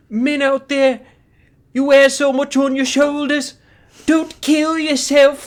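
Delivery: thick put-on Scouse accent, very high and loud. Act out a man on stage giving men a very serious message in a strong Scouse accent. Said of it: "He has such a strong Scouse accent".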